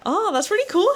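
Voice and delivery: high bright Melbourne-style "that's really cool, hey"; imitating Cass's Aussie hey. Mimicking the housemate's Aussie tag "hey". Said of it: "she'd just be like".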